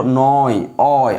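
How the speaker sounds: "নয়" sounded out, then its ending "অয়" alone; sounded-out syllables. Shown as a demonstration. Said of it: "উচ্চারণ করো তুমি একবার".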